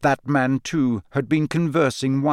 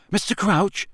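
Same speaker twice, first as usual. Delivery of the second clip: cautious, higher-pitched questioning call; 8 semitones higher than usual. A narrator's reading. Harry approaching the raving man, cautiously. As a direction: call his name warily, pitched up. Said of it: "said Harry cautiously".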